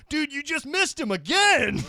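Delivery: laughing bouncer. Retold or imitated. Bouncer telling him he missed him again, laughing. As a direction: laugh through the news. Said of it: "the bouncer's like".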